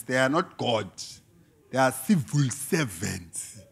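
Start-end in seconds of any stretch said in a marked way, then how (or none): 1.7-3.6 "civil" langzaam en nadrukkelijk; slow down and hammer "civil"; slow stress on civil. Shown as a demonstration. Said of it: "Keyword, servant".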